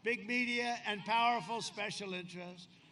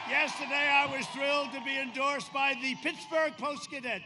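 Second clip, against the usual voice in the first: proud announcement; 4 semitones higher, 7 dB louder than usual. Real, not acted. Rally proclamation.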